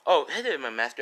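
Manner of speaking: loud, high maid's welcome; servile greeting. Retold or imitated. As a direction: call out a bright hello to the masters. Maids greeting the masters.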